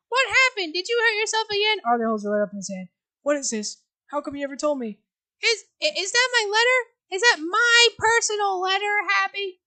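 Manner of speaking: put-on high, fluttery old mother, flustered and defensive; a fussy elderly mother caught off guard; frail old mother. Voice of mother Penny.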